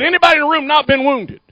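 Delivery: rushed, fast question; too fast. Real, not acted. Preacher rushing his question at the congregation, fast. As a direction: rattle it off too quickly. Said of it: "I say it so fast".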